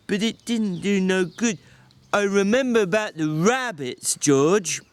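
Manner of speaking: a big simple man pleading with George; Lenny, simple and pleading. Acted. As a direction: beg forgiveness like a scolded child.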